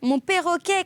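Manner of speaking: crying out. A narrator's reading. Child pulling free from father's hand, high alarmed cry. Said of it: "criai-je".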